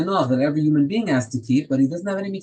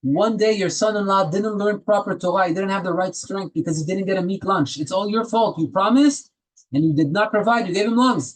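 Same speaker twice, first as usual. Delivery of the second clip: raised, pitched-up mock accusation; heavenly accuser; 5 semitones higher than usual. Heavenly court scolding the father-in-law for failing, raised mock accusation. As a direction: scold him like a prosecutor from on high. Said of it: "they're gonna tell him".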